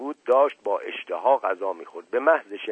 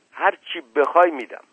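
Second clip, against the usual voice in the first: raised, louder, eager promise; excited; 6 semitones higher, 7 dB louder than usual. A narrator's reading. Desperate patient promising to pay anything, excited. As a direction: blurt the offer out with excitement. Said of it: "هیجان گفت".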